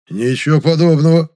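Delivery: offended outburst about his moonshine; indignant. A narrator's reading. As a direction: bristle and snap back loudly. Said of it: "возмутился Герасим".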